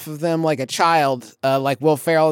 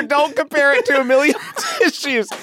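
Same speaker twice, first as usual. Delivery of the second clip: laughing while reading; 7 semitones higher, 3 dB louder than usual. Real, not acted. Reading ad copy, cracking up.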